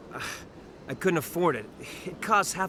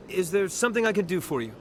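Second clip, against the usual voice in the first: quick, slightly flustered offer of help; 3 semitones higher, faster than usual. Acted. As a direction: rush to be helpful to a superior. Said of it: "Calm down, Private".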